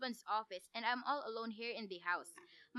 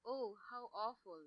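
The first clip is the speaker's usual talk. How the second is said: horrified hush; 3 semitones lower, 6 dB quieter than usual. Acted. Woman overhears murder plot.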